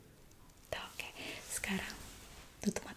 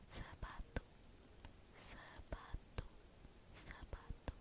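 slow whisper right in your ear; drawn out whisper by the ear; 8 dB quieter, slower than usual. Acted. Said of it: "saya akan membisikkan beberapa kata ke telinga kamu".

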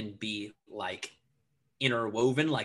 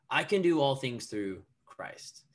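"Christ" set apart at the end, slow; stress on CHRIST. Shown as a demonstration. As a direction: slowly build to a separate, falling "Christ". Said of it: "I would emphasize different words".

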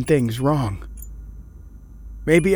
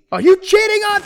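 accusing shout; 7 dB louder than usual. Acted. Husband accusing his wife.

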